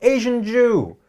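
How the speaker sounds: sudden, high-pitched, shrill yell. Retelling what someone at a bar after a show yelled: imitating a yell. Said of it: "somebody just yelled".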